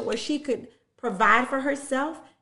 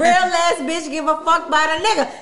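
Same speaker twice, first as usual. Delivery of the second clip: laughing; 6 semitones higher, 7 dB louder than usual. Retold or imitated. Echoing friend's line, laughing.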